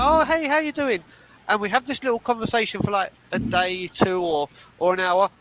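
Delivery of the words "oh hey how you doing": very high, sing-song fake politeness; higher put-on cheery hello; mock friendly greeting. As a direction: plays along with a hollow hello.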